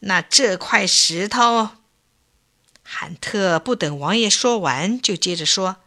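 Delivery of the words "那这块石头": through gritted teeth. Acted. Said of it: "王爷咬牙切齿地说".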